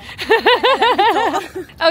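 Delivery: high, loud burst of laughter; loud laughing burst. Real, not acted. (éclat de rire aigu)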